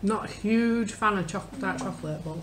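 speaking through a sour grimace; wincing while talking; grimacing at bitter taste. Real, not acted. Seen 1: Face hidden at first, then a sour grimace, no visible chewing.

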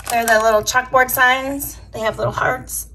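hoarse, scratchy throat; recovering, voice still scratchy. Real, not acted. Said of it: "still have a scratchy voice".

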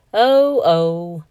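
startled little gasp of words; surprised exclamation. Acted. Groundhog exclaims at the geese.

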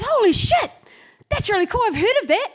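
very high, loud imitated excitement; excited amazement. Biker meeting a Dykes on Bikes rider, excited amazement. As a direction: gush like a star-struck fan, voice way up. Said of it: "he got all excited".

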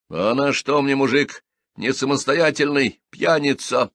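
usual speaking voice

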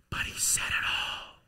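sudden breathy whisper. Shown as a demonstration. Preacher reveals God spoke softly, whispering. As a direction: drop to a bare whisper. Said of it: "in a whisper".

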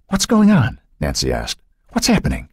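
anxious question. A narrator's reading. Anxious mother questions her husband.

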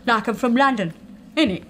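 lightly faked Cockney; badly put-on London Cockney; bad Cockney accent. Nail tech joking that she is from London, in bad Cockney. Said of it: "That's a really bad accent".

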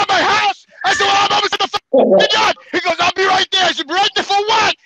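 worked-up disbelief, pitched high; exasperated retort. Retold or imitated. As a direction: retell it as an indignant phone argument. Acted exasperated phone argument with coworker.

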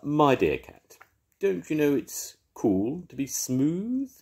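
a dog boasting about his work; Rhubarb the dog, proud. Acted.

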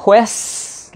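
"Quest" cut off before T, ending on a long S; hissed final S. Shown as a demonstration. Teacher showing the S comes first, hissed final S. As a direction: hold the hissing S at the end of "Quest". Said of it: "là có âm xì trước".

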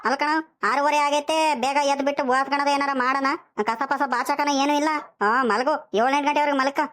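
mild acted telling-off with stretched words; scolding. Grandfather to grandson about sleeping late, scolding. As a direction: nag a lazy child, sarcastically. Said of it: "ಹಿಂಗ್ ಬೈತಿದ್ಯಾ".

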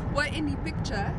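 mock African accent, badly missed; botched attempt at an African accent. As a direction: imitate her with the wrong accent. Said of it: "that's the wrong accent".

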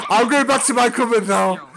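mock creep, swelling into high, loud cries; hammed-up creepy cupboard dweller. Cupboard dweller to a little girl, hammed-up creepy. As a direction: play a leering creep getting carried away.

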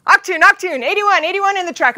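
loud, high German alarm call; German announcer. Retold or imitated. Imitating the German announcer signalling another crash, loud and high. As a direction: bark the crash warning like an announcer. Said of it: "the announcer comes on in German again".

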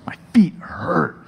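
slow whispered complaint; a weary whispered gripe; tired whisper. Retold or imitated. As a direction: mutter it, worn out and sore. Mad and tired.

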